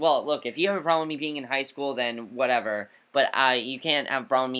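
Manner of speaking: ordinary talk, nothing marked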